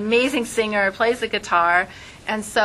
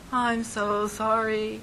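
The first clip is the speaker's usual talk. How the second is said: mournful minor key; 4 dB quieter, much slower than usual. Shown as a demonstration. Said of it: "you would do it in".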